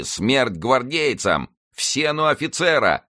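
high, drawn-out mob cry without much volume; crowd's cries. A narrator's reading. Rioting mob threatens the guards, high mock shouting. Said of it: "слышались крики".

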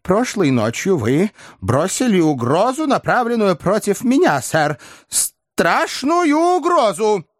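high, shaky, rising to a cry; trembling fear. Acted. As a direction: tremble all through, building to panic. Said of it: "дрожа всем телом".

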